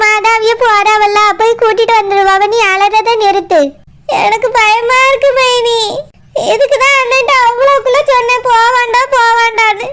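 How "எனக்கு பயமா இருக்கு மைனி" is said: a scared little sob in the words; crying in fear. Acted. Sister tells her sister-in-law she is scared, crying. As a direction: confess the fear through tears.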